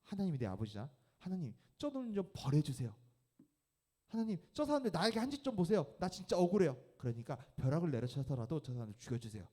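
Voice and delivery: high, whiny plea for revenge; mock aggrieved complaint. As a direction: complain to God like a wronged child. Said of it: "뭐라고 이야기해야 될 것 같아". (억울해서 벌을 비는 사람, 높고 억울한 하소연)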